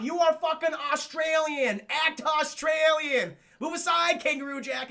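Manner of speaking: high, loud, drawn-out scolding; mock exasperated outburst; Brandon T. Jackson fed up. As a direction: tell him off, leaning on each word. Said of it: "Brandon T. Jackson's like, "I've had a fucking enough".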